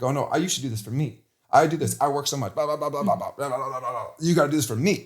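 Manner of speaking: whiny self-important demands, lightly voiced; imitating his old entitled self, half-joking; mock entitled husband. Husband mocking his past self demanding things from his wife, lightly whiny. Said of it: "I felt entitled".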